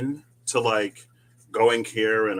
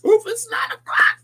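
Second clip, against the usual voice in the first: breathy startled whisper; 8 dB louder than usual. Real, not acted. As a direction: whisper it in surprise. Realizing the late hour on stream.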